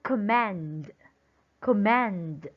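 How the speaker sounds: short first syllable, lean on the end of command; stress on second syllable. Shown as a demonstration. Teacher giving a verb example, second syllable stressed in command. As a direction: command with a long MAND. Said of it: "always have the stress on the second syllable".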